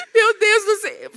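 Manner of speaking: high-pitched whimpered exclamation; hammed-up tearful fright; mock crying. After hanging up the phone, mock crying. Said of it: "Comecei a chorar".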